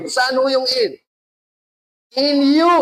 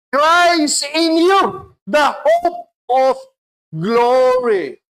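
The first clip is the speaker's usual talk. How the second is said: preaching shout; 5 semitones higher, 3 dB louder, much slower than usual. Real, not acted. Preacher proclaiming scripture.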